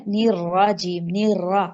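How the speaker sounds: نیر را with a flat ra and no w glide; no w sound. Shown as a demonstration. Teacher modelling the correct نیر را. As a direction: keep the ra unrounded in نیر را. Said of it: "نیر وا نہیں کرنا".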